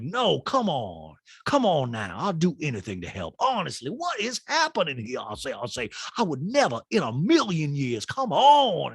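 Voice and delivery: mock-pleading Sutton, swooping up; Sutton impression. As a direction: plead melodramatically, pitch jumping on key words.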